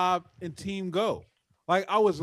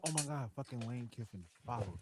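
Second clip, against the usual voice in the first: stunned whisper; 7 semitones lower, 14 dB quieter than usual. Retold or imitated. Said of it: "I'm like".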